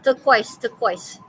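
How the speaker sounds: "Turquoise" said clearly as "tuh-KWOYZ", twice; pronunciation demo. Shown as a demonstration. Teacher showing a student how the word is pronounced, pronunciation demo. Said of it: "how do you think you pronounce that word?".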